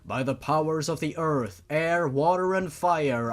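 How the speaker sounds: slow, solemn chanting of a Latin spell over music; ritual incantation. Acted. Father raising his daughter's soul, solemn incantation. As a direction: intone it like a sorcerer raising the dead.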